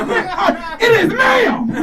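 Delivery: offended shout correcting the man who called her sir; indignant correction. Retold or imitated. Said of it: "and I'm like".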